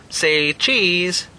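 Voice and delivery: slow robotic cow statue voice; talking cow. Acted. Talking cow statue counting the group, slow and mechanical. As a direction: count them slowly like a machine. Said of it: "said the cow".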